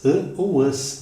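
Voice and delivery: "ã" and "as" both sounded through the nose; nasal vowel examples "ã ou as". Shown as a demonstration. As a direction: demonstrate nasal "ã", then its plural "as" nasalised. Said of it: "as vogais nasais".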